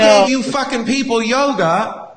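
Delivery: drawn-out name, loud and high; hammed-up indignant swami; mock outrage. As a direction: rant like an affronted guru. Acted outraged swami refused entry.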